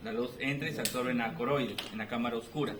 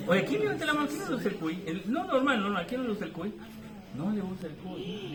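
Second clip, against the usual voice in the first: high, laughing and playful; laughing question; 7 semitones higher than usual. Real, not acted. Teacher asks the class who dislikes cuy, laughing. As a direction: ask through your laughter.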